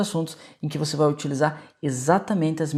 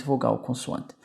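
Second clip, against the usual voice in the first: normal talking voice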